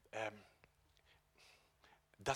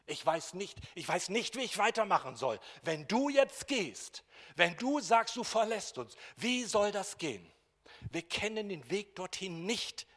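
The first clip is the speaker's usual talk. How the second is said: desperate Thomas; 8 semitones higher, 8 dB louder than usual. Acted. Thomas desperate about Jesus leaving.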